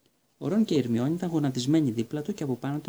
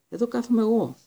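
higher, louder protest over a seat; indignant; 9 semitones higher, 5 dB louder than usual. A narrator's reading. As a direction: insist loudly this seat is taken. Quarrel over seat in dark. (αγανακτισμένη, δυνατή διαμαρτυρία για τη θέση)

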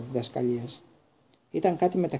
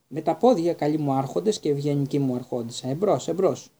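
knightly shout. Acted. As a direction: sound the charge like a gallant knight. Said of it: "Τότε φώναξε".

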